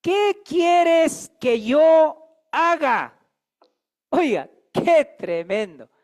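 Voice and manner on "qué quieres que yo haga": drawn-out, slow awed plea, a little louder; very slow, hushed-awe question to the Lord; Saul pleading. Acted. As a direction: ask it as a trembling, humbled Saul.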